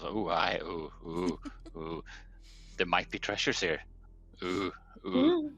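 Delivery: excited treasure hunter. Acted. Voicing nosy character.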